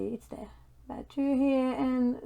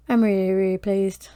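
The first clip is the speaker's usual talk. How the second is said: excited; 7 dB louder than usual. Real, not acted. Thrilled with the cheap kit.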